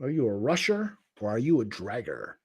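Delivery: low, quiet challenge; movie quote. Acted. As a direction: pose it softly and low, like a film line. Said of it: "Quote from a great movie".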